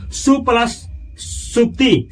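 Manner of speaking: slow, spelled-out सु plus सुप्ति with सु stressed; slow split. Shown as a demonstration. Teacher showing students the split, slowly. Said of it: "teacher splits the compound".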